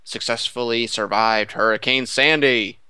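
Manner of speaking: put-on intro announcer voice. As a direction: deliver it like a show host intro. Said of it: "And this voice is now done".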